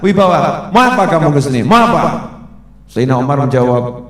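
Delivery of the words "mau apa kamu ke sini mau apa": loud, stern, commanding challenge; bold, authoritative. Shown as a demonstration. Right way to face an enemy, loud and authoritative. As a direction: stand firm and demand an answer. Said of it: "Nunjukkan wibawa".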